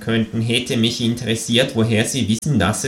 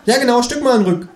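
cheeky kangaroo voice; 9 semitones higher than usual. Acted. Kangaroo voice, laughing, fast.

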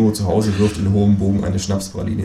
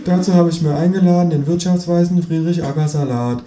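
bright, raised presenter voice; TV host voice; 5 semitones higher than usual. Acted. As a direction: announce it like a TV host. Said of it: "fährt die Frau fort".

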